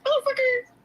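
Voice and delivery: high, squeaky mock curse; mock exasperation. Reacting to the cat, a high mock curse. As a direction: squeal it in fake annoyance. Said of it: "I'm just like".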